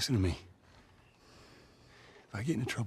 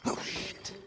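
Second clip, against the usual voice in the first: hushed curse; 12 semitones higher, 4 dB quieter than usual. Real, not acted. Spotting danger, sneaking.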